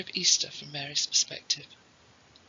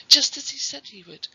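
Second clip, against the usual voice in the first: high, loud burst of joy; elated, louder and much higher; jubilant; 8 semitones higher, 7 dB louder than usual. Acted. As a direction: ring it out in triumphant relief. Mary realises her son is alive.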